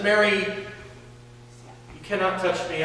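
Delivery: slow, soft and calm; calmly. A narrator's reading. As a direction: gently hold her back with calm words. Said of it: "calmly pushes her back and says".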